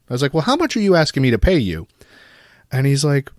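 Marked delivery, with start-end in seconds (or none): 0.3-1.9 higher put-on cartoon dad voice; Chef's dad impression. Confusing the scam caller in a cartoon dad voice. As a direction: ask it like a clueless cartoon dad. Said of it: "my best impression of Chef's dad".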